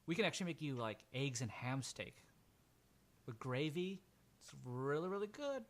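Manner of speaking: lightly voiced friendly woman, lilting up high at the end; friendly Jenny. Woman offering ham steak to the bather, lightly put-on friendly voice. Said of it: "she's super friendly".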